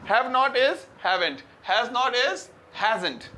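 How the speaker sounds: slow, each word set apart; slow teaching demo. Shown as a demonstration. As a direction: drill it slowly for the class. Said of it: "I hope you understand".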